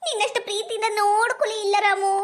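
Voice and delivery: tearful, voice catching on a sob; hammed-up weeping over lost love; crying. Woman sobbing to Ramu about her husband, tearful. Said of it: "ಯಾಕೆ ಅಳಕುಂತಿ?".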